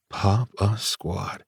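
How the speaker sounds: slow, soft echo of pop a squat; savoring the phrase. Acted. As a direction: roll pop a squat slowly, amused.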